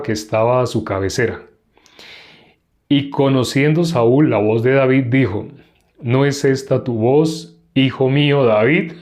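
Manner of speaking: measured Bible reading aloud; scripture reading. Acted. Teacher reads David and Abisai's night raid, measured scripture reading. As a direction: read the chapter out evenly, phrase by phrase.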